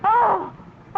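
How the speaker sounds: high, hammed-up anguished wail; wife learns the mink coat is not hers, comic wail. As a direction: wail like the world just ended.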